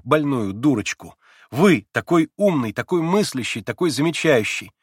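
put-on eager young woman pressing her point; young Lise. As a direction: play the agitated young girl Lise. Lise serious then pleading.

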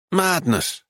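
sharp shocked gasp of a word. A narrator's reading. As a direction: breathe it out in shock. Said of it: "he gasped".

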